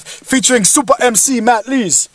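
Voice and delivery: slow announcer flourish; bigging up like an MC intro; hype announcer. Acted. Announcing the show.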